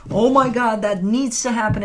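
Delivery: loud, pressured mock fretting; mock panic. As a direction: act out someone piling pressure on themselves. Acting out self-imposed pressure.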